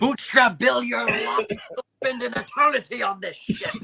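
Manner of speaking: high-pitched hammed-up pirate villain; Davy Jones. Player echoing friend's pirate quote, high mock villain impression. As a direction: play a high-voiced mock sea captain. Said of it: "channel my Davy Jones a little".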